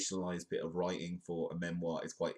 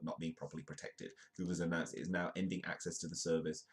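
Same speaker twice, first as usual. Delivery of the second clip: reading a tech report aloud; news article read. Real, not acted. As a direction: read the article out briskly and evenly.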